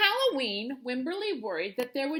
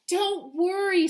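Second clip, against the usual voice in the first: mother; 6 semitones higher, 5 dB louder, slower than usual. A narrator's reading. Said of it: "said her mother".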